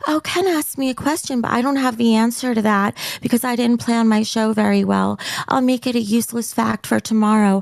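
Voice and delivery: flat, sleepy mock host; boring monotone voice. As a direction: drone it out like a dull host. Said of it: "Your voice puts me back to sleep".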